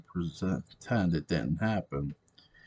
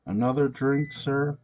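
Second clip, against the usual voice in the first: waitress; 8 semitones higher, 4 dB louder than usual. A narrator's reading. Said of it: "busty waitress asked".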